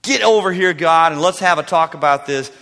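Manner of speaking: bitter know-it-all demand; arrogant demanding. Acted. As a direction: order God over like a subordinate. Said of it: "this arrogant, demanding".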